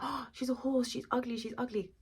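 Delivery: high-pitched mimicry of an appalled groom; mock dismay. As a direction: whine it up high, making fun of him. Mimics Henry's horror at bride.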